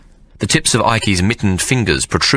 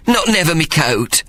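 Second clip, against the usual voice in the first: much higher, pleading whimper; 10 semitones higher than usual. Acted. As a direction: plead it, voice rising high. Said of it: "he whimpered".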